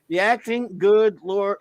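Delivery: hammed-up disgust at the acting; exasperated outburst. Host reading a listener's cringing review, exasperated. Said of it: "Boo says".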